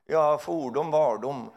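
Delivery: put-on a touch of solemn old-fashioned speech; mock archaic preacher. Preacher imitating pastor's solemn old-fashioned voice, laughing. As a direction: intone it like an olden pastor. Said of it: "började han prata på det så här".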